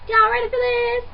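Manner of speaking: hyped-up yell; rising, shouted hype call. Acted. Hyped show opener.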